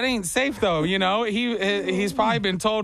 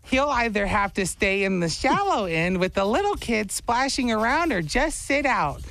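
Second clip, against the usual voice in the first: lightly put-on girl voice, pitched up; Michaela, girl voice; 4 semitones higher than usual. Girlfriend explaining his pool worry, light girl voice. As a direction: keep up the slightly higher girl read. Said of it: "You hear his girl voice".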